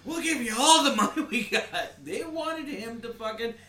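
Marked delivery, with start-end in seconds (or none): 0.0-1.6 lightly higher begging quote; mock pleading. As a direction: beg for it half in jest.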